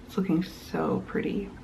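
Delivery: soft admiring whisper. Real, not acted. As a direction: hush it out fondly. Admiring her knitting.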